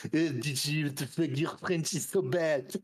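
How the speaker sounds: lightly voiced teasing friend; Stefan impression. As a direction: scoff at someone's bad French in a buddy's voice.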